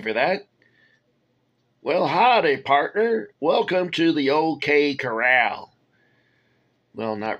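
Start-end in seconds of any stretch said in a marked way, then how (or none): 1.8-5.8 cowboy voice. Pretend. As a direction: greet like a hammy cowboy. Playful cowboy greeting.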